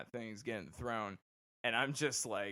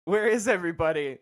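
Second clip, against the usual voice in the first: loud, quick, raised-pitch demand; drill sergeant yell; 7 semitones higher, 14 dB louder, faster than usual. Retold or imitated. Drill sergeant to lone recruit on empty bus, yelling. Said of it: "comes on the bus yelling".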